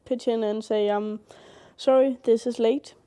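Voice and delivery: sick, under-the-weather voice. Real, not acted. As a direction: speak like you're ill in bed. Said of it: "As you can hear, I'm sick right now".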